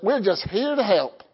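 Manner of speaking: attempted Australian accent, slipping toward Southern; badly faked Australian cartoon accent. Preacher imitating a cartoon slogan, wobbly Australian accent. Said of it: "with an Australian accent".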